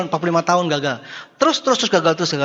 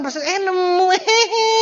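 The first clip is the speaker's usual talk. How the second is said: laughing mock find; 13 semitones higher, slower than usual. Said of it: "bukan bakat atau bukan kebetulan".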